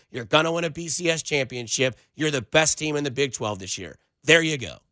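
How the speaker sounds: low, mock-sincere apology dripping with sarcasm; sarcastic apology. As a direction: fake a grovelling apology to a fan. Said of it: "I tend to be a little sarcastic sometimes".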